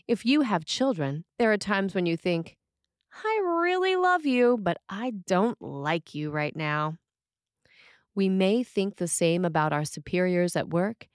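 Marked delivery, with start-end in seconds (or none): 3.2-7.0 loving at first, then fed up; exasperated parent. Retold or imitated. Parent thinking about a trying child, sweet then weary.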